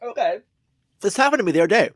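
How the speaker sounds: talking around ice in mouth; words round a mouthful of ice. Real, not acted. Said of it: "You have ice in your mouth".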